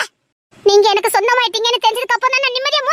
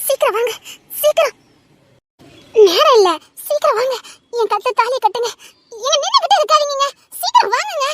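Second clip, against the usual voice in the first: urgent hurry; 2 semitones higher than usual. Acted. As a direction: rush him, impatient and anxious. Urgent bride hurrying him. (பதற்றத்துடன் அவசரப்படுத்தல்)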